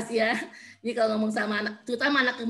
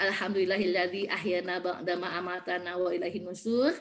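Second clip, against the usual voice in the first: lower, even Arabic recitation; recited prayer; 4 semitones lower than usual. Shown as a demonstration. Mother praying on waking, low recitation.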